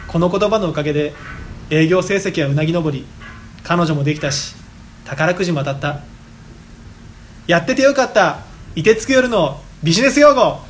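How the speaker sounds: mock commercial testimonial.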